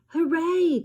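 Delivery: high, loud cheer; proud kid cheering; brother's cheer. Acted. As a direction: shout it for your sister on stage. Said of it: "called my brother".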